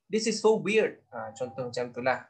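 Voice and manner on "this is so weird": high, fast, flustered officer voice; mock-panicked British officer at a loss; flustered British soldier. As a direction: play a bewildered British soldier, pitched up. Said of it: "askar British cakap macam tu".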